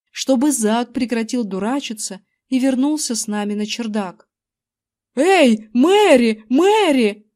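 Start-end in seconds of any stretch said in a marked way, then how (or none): 5.1-7.2 loud call across the garden. A narrator's reading. Husband calling his wife outside, loud call. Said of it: "позвал мистер Эвандер свою жену".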